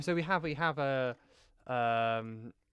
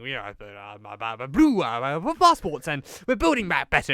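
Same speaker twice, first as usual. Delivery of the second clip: half-hearted Boris voice, louder on the blue passports; Boris impression; 4 dB louder than usual. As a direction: lightly mimic a blustering prime minister. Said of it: "Boris saying".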